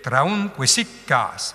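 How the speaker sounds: "traun quisic cas" slow, long syllables drawn out; scanned iambs. Shown as a demonstration. Teacher points out two iambs, slow scanned reading. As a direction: separate the feet slowly, stretch "cas". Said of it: "vous avez deux iambes".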